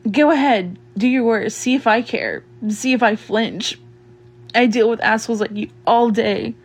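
low, scornful dare; contemptuous challenge in a low voice; defiant taunting. Acted.

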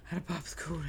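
hushed whisper to himself. Real, not acted. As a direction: whisper it under his breath. Whispering to himself while gaming.

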